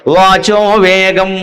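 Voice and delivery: each syllable of వాచో వేగం drawn out slowly; slow recitation. Shown as a demonstration. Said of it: "వేరే వేగాలు చెప్పాడు".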